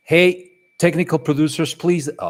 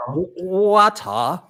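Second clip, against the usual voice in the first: slow, higher mock Australian accent; 5 semitones higher, 4 dB louder, much slower than usual. Host trying the bottle of water challenge, mock Australian accent. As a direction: stretch water out Australian style. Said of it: "that's a little bit more Australian".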